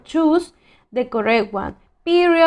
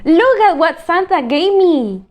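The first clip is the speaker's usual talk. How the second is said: excited; 3 semitones higher, 3 dB louder than usual. Shown as a demonstration. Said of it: "I'm using exclamation point".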